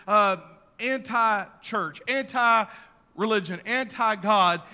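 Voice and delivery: loud, high, rising sermon peak; loud, high preaching build; full-force preaching. Acted. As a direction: preach it hard to the crowd.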